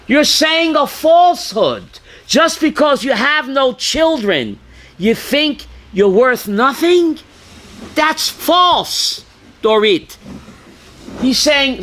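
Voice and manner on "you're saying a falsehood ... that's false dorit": sharp scolding outburst, a touch raised; angry rebuke. Retold or imitated. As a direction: scold her for the falsehood. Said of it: "You know he got so angry?".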